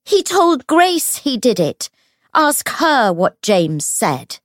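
high, loud, frantic cry; high-pitched furious outburst; screamed accusation. A narrator's reading. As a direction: scream it out, starting at the top of the voice. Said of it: "Tatiana's voice rose to a scream".

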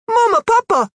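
high joyful shout; happy shout. A narrator's reading. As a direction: call out gladly to parents.

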